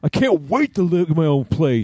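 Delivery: high, whiny mock teenager yelling at dad; bratty teen son. Father imagining his son ten years from now, whiny mock teen. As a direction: play the sulky teenage son telling dad off.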